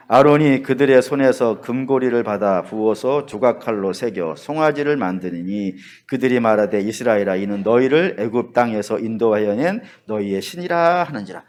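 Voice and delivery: low, even reading of a Bible verse; steady low-pitched pulpit reading; scripture reading. Real, not acted. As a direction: read the passage out solemnly in a low, level voice. Reads the verse aloud.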